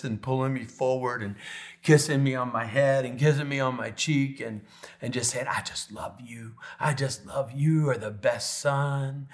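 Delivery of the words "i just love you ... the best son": slow, loving imitation of dad; gently retold fatherly love; tender affection. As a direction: say it slowly and fondly to a son. Retold dad's loving words to son.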